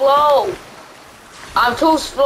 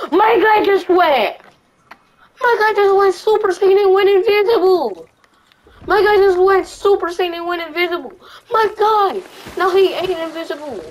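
excited disbelief; 6 semitones higher, faster than usual. Real, not acted.

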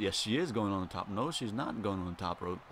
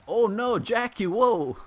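sudden high, loud outcry; excited outcry; 10 semitones higher, 8 dB louder, slower than usual. Real, not acted. Gamer calling the match, shocked yelp. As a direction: yelp in surprise as the punch lands.

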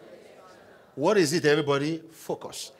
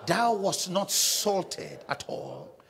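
slow, relishing every word of the verse; savoring scripture reading. Shown as a demonstration. Pastor shows the congregation how to read, slow and savoring. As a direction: read it like sucking the marrow, with delight. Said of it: "So read with that, that, that de-, delight".

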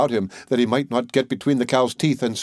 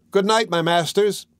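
high-pitched little man calling goodnight; a high, teasing farewell; cheeky little man; 8 semitones higher than usual. A narrator's reading. Tom bids the men farewell from the mouse hole, cheeky.

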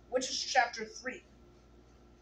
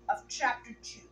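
unvoiced whisper. Shown as a demonstration. Whispered repeat of chapter title.

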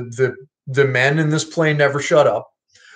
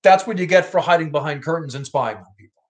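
callous shrug; 3 semitones higher, faster than usual. Retold or imitated. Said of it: "his immediate reaction is".

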